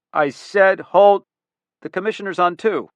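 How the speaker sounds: impatient order. Acted. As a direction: lean on each word to shut her up. Boss cutting secretary off.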